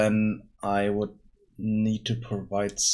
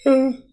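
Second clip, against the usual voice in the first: loud tired yawn; 12 dB louder than usual. Real, not acted. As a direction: let out a big yawn mid-sentence. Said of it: "sorry about the yawning".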